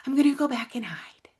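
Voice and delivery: a hushed, voiceless whisper; whispered hiding. Retold or imitated. Repeating her avoidant thought to listeners, whispered. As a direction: breathe it like someone shrinking away to hide.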